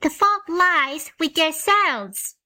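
put-on high, slow, stern little girl; a child scolding firmly; severe girl. A narrator's reading. Jane Gladys scolding the animals, slow and stern. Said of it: "said Jane Gladys severely".

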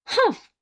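short high disappointed grunt; a let-down humph, pitched high; wife's disappointed huff. A narrator's reading.

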